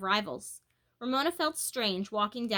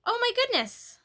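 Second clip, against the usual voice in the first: high, startled oh my goodness; surprised exclamation; 12 semitones higher, 3 dB louder than usual. A narrator's reading. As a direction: gasp it out, caught off guard. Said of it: "said Missus Larson".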